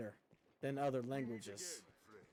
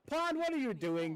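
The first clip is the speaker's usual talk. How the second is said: higher, louder bewildered call to a teammate; puzzled call-out; 9 semitones higher, 4 dB louder than usual. Real, not acted. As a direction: call out in amused disbelief. Calling to teammate in game.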